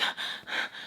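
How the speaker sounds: acted voiceless huff of breath; soft mock-stressed exhale; exasperated sigh. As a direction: let out a fed-up breath, retold. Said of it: "and I'd be like".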